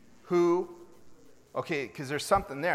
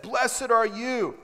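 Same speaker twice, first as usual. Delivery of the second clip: slow, swelling cry of blessing; loud proclamation; 4 semitones higher, 4 dB louder, much slower than usual. Acted. Preacher voicing Elizabeth's loud blessing, slow and ringing. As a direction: call it out slowly for the whole room. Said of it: "spoke out with a loud voice".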